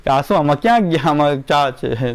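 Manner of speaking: a dismissive adult spoiling the game; mock know-it-all. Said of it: "જ્ઞાન પ્રગટ કરીએ કે".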